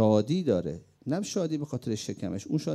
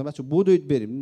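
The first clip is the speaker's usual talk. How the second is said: retold battlefield shout, loud; urgent loud call to charge; shouted call to run; 3 semitones higher, 10 dB louder than usual. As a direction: yell to the men to run forward. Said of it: "گفتم".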